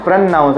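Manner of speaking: "प्रोनाउंस" as prun-NOUNCE, N held; double N. Shown as a demonstration. Teacher making it feel like double N, careful model. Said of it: "ऐसा feel होना चाहिए कि double एन है".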